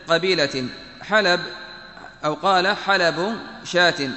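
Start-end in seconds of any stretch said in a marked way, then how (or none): 2.8-4.1 حلب said slowly with an open lam, ha-la-b; slow careful reading. Shown as a demonstration. Teacher glossing a hadith word for students, slow and careful. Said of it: "بفتح اللام".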